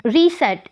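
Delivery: रीसेट with the prefix री given its own accent; secondary stress on री. Shown as a demonstration. Teacher giving an again-sense example, secondary stress on री in रीसेट. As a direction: put secondary force on री in रीसेट. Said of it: "secondary accent use हुई है री prefix पे".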